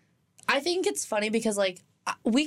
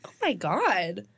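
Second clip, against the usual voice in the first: offended; much slower than usual. Retold or imitated. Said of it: "I got so offended for a second".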